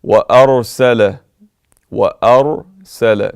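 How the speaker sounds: وأرسل with a full, heavy ra. Shown as a demonstration. Reciter modelling the proper tajweed. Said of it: "Not وأرسل".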